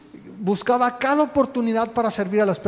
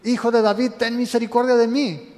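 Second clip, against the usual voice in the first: higher and louder, pleading call to Jesus; imitating a desperate cry; 3 semitones higher, 3 dB louder than usual. Bartimeo calling over the crowd to Jesus, a pleading half-shout. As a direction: cry out for mercy as the blind beggar would. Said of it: "él sigue gritando".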